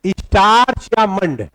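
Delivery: slow, drawn-out dictation. Shown as a demonstration. Teacher giving both terms to write down, slow dictation. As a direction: spell it out slowly for note-takers. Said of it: "अब पहला point लिखिएगा".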